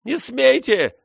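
put-on high, loud squealing boy; shrill boy's shout. A narrator's reading. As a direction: screech it like an outraged boy. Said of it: "визгливо закричал мальчик".

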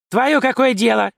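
wife snapping at the secretary; snapping viciously. A narrator's reading. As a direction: bite back like a cornered rat. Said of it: "окрысилась бабища".

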